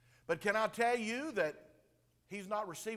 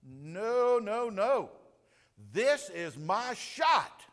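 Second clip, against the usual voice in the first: insistent; 4 semitones higher, 7 dB louder, much slower than usual. Retold or imitated. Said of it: "he's like".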